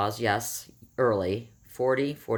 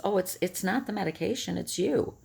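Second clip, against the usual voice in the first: higher, lightly voiced breezy doctor; a mock-soothing doctor brushing off the worry; calm doctor; 7 semitones higher than usual. Doctor on speakerphone dismissing her panic, mock calm. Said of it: "she very calmly says".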